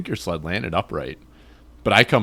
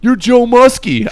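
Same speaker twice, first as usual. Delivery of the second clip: high, loud, slow confused voice; imitating dazed friend; 12 dB louder, slower than usual. Dazed friend naming the wrong person, high, loud and slow. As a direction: drag it out like he's sure of the wrong name. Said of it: "You're like".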